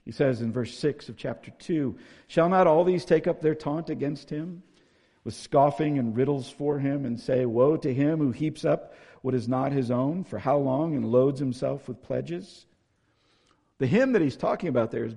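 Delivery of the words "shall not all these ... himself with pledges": raised, louder Bible-reading voice; scripture reading. Acted. Preacher reading a prophet's taunt to the congregation, declamatory. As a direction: proclaim the verse with force.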